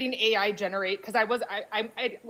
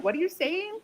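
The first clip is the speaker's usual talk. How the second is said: higher puzzled mimicry; mocking Americans; 9 semitones higher than usual. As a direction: ask it like a lost American, pitched up. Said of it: "the Americans are like".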